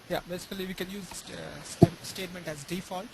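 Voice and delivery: very faint, distant voice; barely audible. Real, not acted. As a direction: speak barely audible, as if far off. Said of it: "Yeah, but it's pretty faint".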